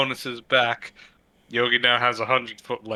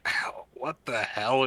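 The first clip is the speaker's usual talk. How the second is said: breathy; 5 dB quieter than usual. Acted. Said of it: "breathy voice saying".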